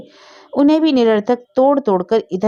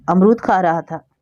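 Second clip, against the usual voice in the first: small scared answer, caught out; frightened. Acted. Boy caught in the tree answers his sister-in-law, frightened. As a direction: mumble it like a caught child. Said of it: "डरते हुए कहा".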